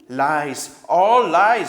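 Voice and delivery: loud, barking badger outburst; furious denial. A narrator's reading. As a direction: shout the denial down. Badger angrily denies.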